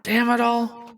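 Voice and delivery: irritated boss bellowing orders, pitch spiking on the curses; fed up, shouting at clumsy workers; harried innkeeper yelling at his staff to hurry. Acted. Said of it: "one guy yelling".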